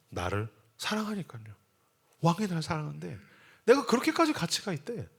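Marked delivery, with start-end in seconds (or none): 3.6-5.1 high-pitched acted delight; a touch of giddy joy; delighted laughing. Loved florist talking to herself, mock delight. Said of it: "막 웃으면서 이래요".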